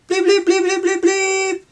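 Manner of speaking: very high, loud electronic bleeps; robot radio beeps. Acted. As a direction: beep like a toy radio machine. Radio machine beeping.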